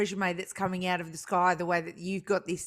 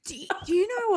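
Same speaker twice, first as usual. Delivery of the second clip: laughing; 11 semitones higher than usual. Real, not acted. Laughing mid question.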